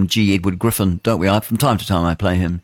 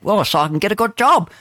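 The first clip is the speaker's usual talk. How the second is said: mock eager kid; 11 semitones higher than usual. Mock naive youngster voice.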